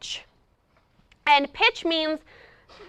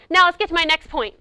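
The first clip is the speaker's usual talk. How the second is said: abrupt jump; 3 semitones higher, 5 dB louder than usual. Shown as a demonstration. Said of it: "that just ruined whatever mood".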